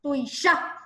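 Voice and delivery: "Tuishá" landing firmly on the á; stress on final A. Shown as a demonstration. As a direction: stress the closing vowel of "Tuishá". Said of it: "En la última A".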